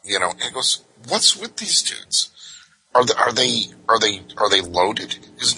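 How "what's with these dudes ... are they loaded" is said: puzzled cop. Retold or imitated.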